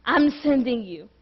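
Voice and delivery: a low, soft, firm voice of God insisting; God speaking. Acted. Preacher voicing God telling Moses to listen. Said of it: "God said".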